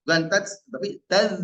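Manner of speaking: taj said with j, then taz with a bitten z; contrast of sounds. Shown as a demonstration. Teacher contrasting taj and taz for students. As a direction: set the wrong taj against the right taz. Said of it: "Digigit huruf zalnya".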